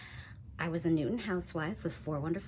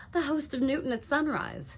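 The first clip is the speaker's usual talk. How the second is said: impressed; 5 semitones higher than usual. Acted. Starstruck at naming the radio host.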